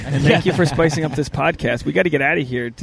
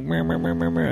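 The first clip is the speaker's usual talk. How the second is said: imitated chatter; 2 semitones higher, 4 dB quieter than usual. Imitates couple's endless chatter, softer mumble.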